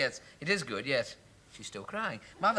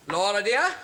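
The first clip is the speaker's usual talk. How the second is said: proud announcement; 5 semitones higher, 7 dB louder than usual. Acted. Announcing promotion to fiancee.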